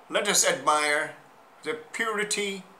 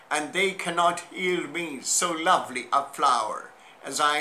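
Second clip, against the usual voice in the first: measured verse reading, falling away at stanza ends; poetry recitation. Acted. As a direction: recite it as an address to the violet, phrase by phrase. Recites a poem to a violet.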